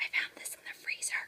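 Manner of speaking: hushed whisper. Ending a cooking video, whispering so her husband won't hear. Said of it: "I'm whispering because I don't want my husband to hear".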